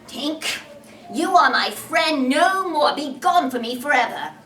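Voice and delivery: put-on loud, stern boy banishing a friend; a stern, hurt Peter sending Tink away. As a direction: cast her out sternly.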